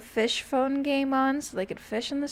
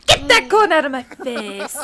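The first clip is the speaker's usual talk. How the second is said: Nacho Libre quote; 11 dB louder than usual. Acted. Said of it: "sound exactly like him".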